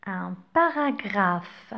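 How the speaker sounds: paragraphe said slowly, final e silent, ending on f; slow model reading. Shown as a demonstration. Teacher to pupils, reading paragraphe slowly and clearly. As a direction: spell out paragraphe syllable by syllable. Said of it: "Le E à la fin du mot est muet".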